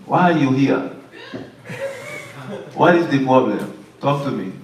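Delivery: lightly hammed-up Jamaican psychic accent; imitation Jamaican medium, pausing between questions; mock Jamaican accent. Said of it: "y'all say it's a Jamaican accent".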